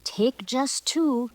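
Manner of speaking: high, slow, grand command; squawked order. Acted. Peacock instructing the girl to pluck plumes, slow grand squawk. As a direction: order her slowly like royalty. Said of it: "he squawked".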